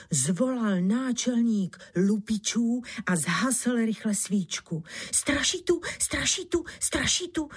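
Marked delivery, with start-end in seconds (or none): 5.1-7.5 high, rising panicked calls; calling out. Acted. Robber fleeing in fright, high rising calls. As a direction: cry it out high as he flees. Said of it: "zvolal jiný loupežník".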